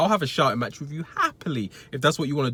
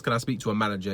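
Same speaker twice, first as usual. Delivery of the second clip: complaining customer voice; 4 semitones lower, 4 dB quieter, faster than usual. Shown as a demonstration. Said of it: "whatever that talk is".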